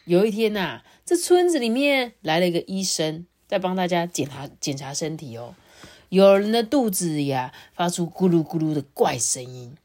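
lively storyteller with lifted openings, settling at phrase ends; children's storytelling. Acted. Adult begins the farmer and crocodile tale for a child, storytelling. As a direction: read it to a small child.

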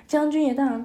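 put-on lively, expressive story voice for kids; storytelling to children. A narrator's reading. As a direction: read it like a bedtime tale for little ones.

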